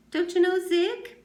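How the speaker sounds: loud, high sneering taunt; mocking tease. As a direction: needle him with fake surprise. X-Ray mocking Stanley to Zigzag.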